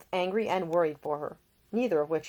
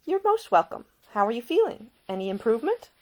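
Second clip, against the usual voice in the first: higher, brighter-pitched caring lady; a young woman tending a seasick man, solicitous and higher; Ida, gentle young woman; 7 semitones higher, 5 dB louder than usual. A narrator's reading. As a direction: voice the attentive young lady nursing him. Ida's voice in narration.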